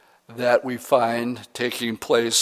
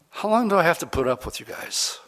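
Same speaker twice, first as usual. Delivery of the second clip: higher-pitched, mildly exasperated question; frustrated Jesus; 6 semitones higher than usual. Acted. Pastor voicing Jesus to his disciples, frustrated. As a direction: voice a weary complaint at followers. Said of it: "I mean, he's frustrated".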